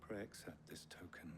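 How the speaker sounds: hushed reverent whisper; creepy calm cultist. Acted. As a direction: offer it like a secret rite. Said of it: "You sound like a cultist".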